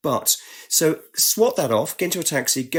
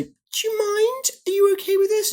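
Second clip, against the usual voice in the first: gentle mock asking.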